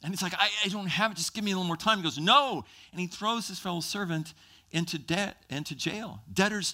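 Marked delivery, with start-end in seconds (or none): 0.3-2.0 stammering, higher-pitched mild plea; pleading. Acted. Preacher plays debtor asking for time, mildly pleading. 2.2-2.6 loud, high acted refusal; harsh refusal. Preacher plays creditor refusing more time, loud and angry.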